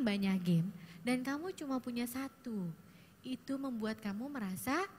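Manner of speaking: slow, gentle reflecting back; empathic reflection. Shown as a demonstration. Counselor reflects teen's feeling, slow and gentle. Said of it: "Saya bilang gini".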